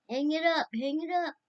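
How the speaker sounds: high, loud repeated command; retold insistent order. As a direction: imitate someone loudly ordering callers off the phone. Retold order to end the call.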